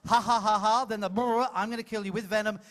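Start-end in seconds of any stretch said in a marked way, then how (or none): 0.1-0.9 loud mock laugh. Shown as a demonstration. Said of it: "So you do it loud". 1.5-2.6 quick menacing line. Shown as a demonstration. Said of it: "'cause you've gotta scare the people".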